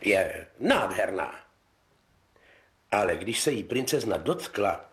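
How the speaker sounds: put-on calm fairy tale reading for children; story narration. Narrator reading a fairy tale to kids, gentle storytelling. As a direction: tell it gently like a bedtime story.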